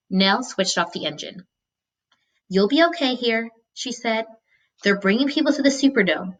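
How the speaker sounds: steady read-aloud narration; story narration. A narrator's reading. Teacher reading a novel to students, storytelling voice. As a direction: read the chapter aloud to the class.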